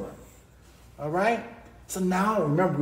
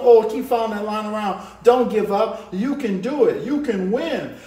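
pep talk; 2 semitones higher, 6 dB louder than usual. Real, not acted. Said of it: "coaching the viewer on".

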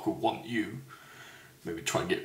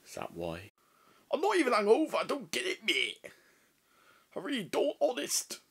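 higher, pleading lad voice; mock innocent denial; 12 semitones higher than usual. Character denying the killing to his friend, higher mock innocence. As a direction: play it all innocent and wide-eyed.

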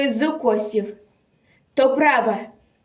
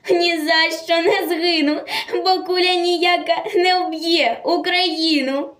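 high, ringing declamation without real laughter; defiant exultation; 5 semitones higher than usual. Acted. Captured girl laughs at her executioners, defiant exultation. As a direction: proudly defy them, pitch held high. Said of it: "Стоїть і сміється".

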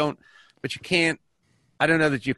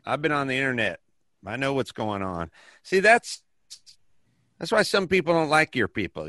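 lightly voiced ignorant bigot, a bit higher; bigot character; 3 semitones higher than usual. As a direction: play a smug bigot with a thin disguise. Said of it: "Mister Bigot".

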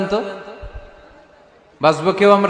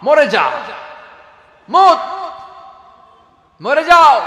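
dying scream; 10 semitones higher, 6 dB louder, slower than usual. Acted. Angel of Death screams and dies.

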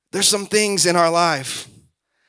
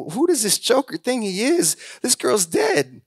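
mocking crowd; 3 semitones higher, 4 dB quieter than usual. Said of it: "they ridiculed him".

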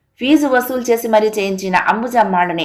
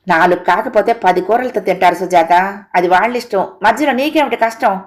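mildly raised voice, lifting at the end. Acted. Husband to wife about others' meals, mildly raised voice. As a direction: scold her with restrained exasperation. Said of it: "స్వరం పెంచి గట్టిగా అన్నాడు".

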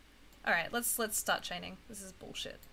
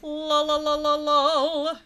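laughing; 6 semitones higher, 9 dB louder, much slower than usual. Real, not acted. Laughing at game voice line.

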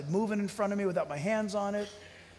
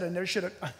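softer, hushed, scared confession; fearful hush; 3 semitones lower, 5 dB quieter, faster than usual. Retold or imitated. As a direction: voice a man terrified of his own words. Frightened man's words retold.

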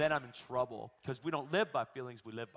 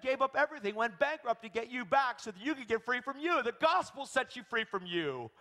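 raised, driving sermon voice; emphatic preaching; 11 semitones higher, 6 dB louder than usual. Real, not acted. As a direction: preach it high and insistent.

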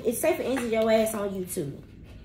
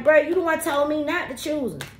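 mad retort; 6 semitones higher, 4 dB louder than usual. Retold or imitated. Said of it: "he mad and shit like".

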